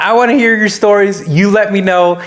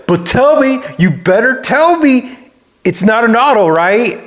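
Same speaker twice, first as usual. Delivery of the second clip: mock accusing; 4 semitones higher than usual. Car guy needling him over his automatic, mock accusing. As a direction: demand the answer like an interrogator.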